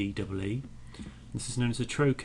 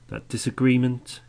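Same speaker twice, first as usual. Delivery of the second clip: "disagreement" punched louder; stressed word; 3 semitones higher, 9 dB louder than usual. Shown as a demonstration. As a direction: lean hard on "disagreement". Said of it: "You can really hear that there are certain words".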